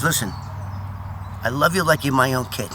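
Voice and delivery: low, soft, confiding plea; retold gently, voice dropped low; fatherly appeal. Boss pleading, arm round narrator.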